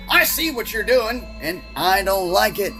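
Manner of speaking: fed-up quote. Retold or imitated. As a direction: play a friend who's had enough, lightly hammed up. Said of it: "he was fed up with this".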